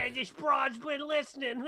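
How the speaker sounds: high-pitched, loud, cracking with laughter; laughing mock soldier. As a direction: squeal it out through your laughter, mocking the soldier. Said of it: "And then they go".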